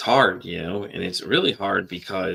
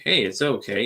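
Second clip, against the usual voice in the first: softer mock reassurance. Podcaster mocking people who calm him down, repeating the soothing line more quietly. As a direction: let the repeat settle down, lightly mimicking. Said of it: "you're sitting there telling me".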